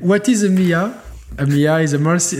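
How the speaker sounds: put-on English words in a thick American accent; mock American tourist asking. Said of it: "je fais avec l'accent américain".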